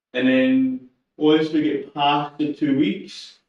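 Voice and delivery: slow, stretched words through a yawn. Real, not acted. Streamer explaining training plan to viewers, mid-yawn. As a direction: talk while yawning. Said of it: "I'm yawning".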